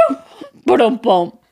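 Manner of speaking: punchy spoken "boom" sound effects; imitated tumbling thuds. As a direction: act out each bump of a fall. Acts out husband tumbling.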